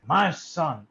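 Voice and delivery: imitated southern accent; mock southern drawl. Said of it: "I'm doing a southern accent".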